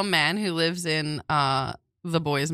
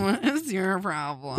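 ASMR whisper; 4 dB quieter, slower than usual. Pretend. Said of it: "but we talk like this".

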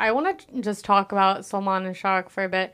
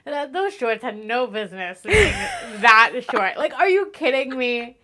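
giggly, higher gushing; giggling; 3 semitones higher than usual. Real, not acted. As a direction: laugh through the praise like a smitten fan. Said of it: "giggly gushing".

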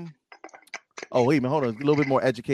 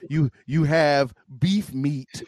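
slow mock lecture; much slower than usual. Real, not acted. Mocking Philly cheesesteak rival.

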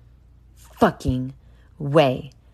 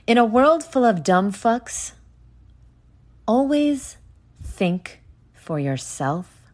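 mock trailer retake; 5 semitones higher than usual. Podcaster retrying the trailer line for listeners, hammed-up trailer voice. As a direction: try the epic trailer line again, bigger this time. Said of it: "Let me try that again".

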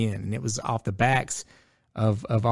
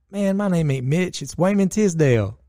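put-on player correcting kid; 7 semitones higher than usual.

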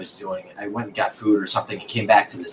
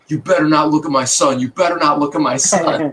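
mildly raised, higher mock yell; retold angry yelling; 5 semitones higher than usual. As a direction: imitate an older man telling someone off. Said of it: "this older man starts yelling at me".

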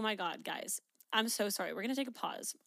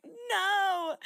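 higher, louder laughing reply; 11 semitones higher, 7 dB louder than usual. Retold or imitated. Answering her worried parents in the car, laughing. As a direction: blurt it out through laughter. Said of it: "I'm like".

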